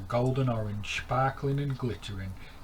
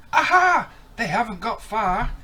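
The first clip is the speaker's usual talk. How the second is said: Stanley; 13 semitones higher, 13 dB louder than usual. Acted. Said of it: "he said".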